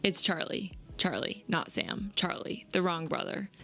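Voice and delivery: gentle read-aloud of a romance passage. Acted. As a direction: read it like sharing a favorite page. Reads book excerpt aloud.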